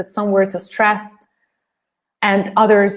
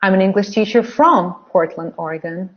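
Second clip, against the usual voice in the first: "from" stressed in its full form; strong form. Shown as a demonstration. Teacher practising strong forms with learners, stressed "from". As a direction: pitch lifted on "from". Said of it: "strong form".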